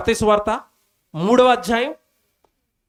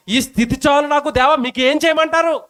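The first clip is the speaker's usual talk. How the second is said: contented prayer; 7 semitones higher than usual. Pretend. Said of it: "contented prayer".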